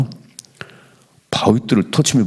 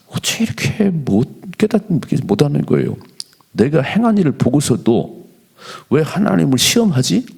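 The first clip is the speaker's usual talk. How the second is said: higher, slowed cry of disbelief; how can they not see it; exasperated disbelief; 6 semitones higher than usual. Real, not acted. Pastor asking the church in disbelief, high and exasperated. Exasperated rhetorical question to congregation.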